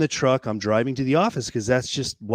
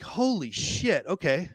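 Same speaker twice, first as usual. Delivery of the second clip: slow, much higher amazed exclamation; stunned disbelief; 5 semitones higher, 4 dB quieter, slower than usual. Retold or imitated. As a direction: let it sink in, slowly, in awe. Stunned by sudden lease exit.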